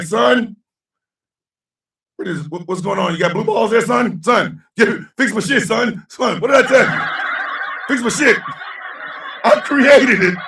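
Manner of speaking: scolding elder. Retold or imitated. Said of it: "Magpie's gonna look at him like".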